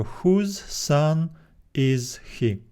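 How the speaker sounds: slow, with question order; slow question form. Shown as a demonstration. Teacher contrasting literal and question word order slowly. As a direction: model the question slowly for students. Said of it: "we need to make it a question".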